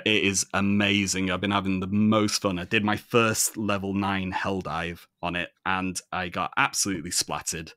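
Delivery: lively, conversational Manchester accent; normal Manchester voice. Shown as a demonstration. Telling co-hosts about a game, chatty Manchester accent. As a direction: gush about it in everyday Mancunian. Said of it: "this is my normal voice".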